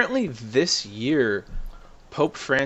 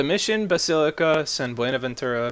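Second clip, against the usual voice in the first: put-on slipped Mexican accent; 4 semitones higher than usual. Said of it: "I started doing a Mexican, Mexican accent there".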